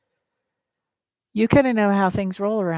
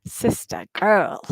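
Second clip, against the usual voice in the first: savoring the name; much slower than usual. Real, not acted. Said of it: "I just like saying your name".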